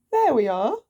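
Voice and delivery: pleased with his trick; showing off the open windows; proud. Acted. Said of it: "he said".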